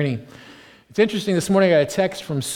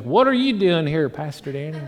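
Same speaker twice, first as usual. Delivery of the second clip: imitating an Australian friend, unconvincingly; bad Australian accent. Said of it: "I can't do an Australian accent at all".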